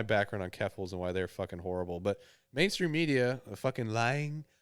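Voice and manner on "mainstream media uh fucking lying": mock outrage. Mocking media.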